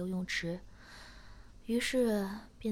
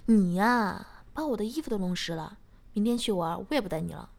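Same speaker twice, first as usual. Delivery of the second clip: playfully scolding, louder; mock angry; 8 dB louder than usual. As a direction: fake anger, teasing not real. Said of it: "我假装生气地说".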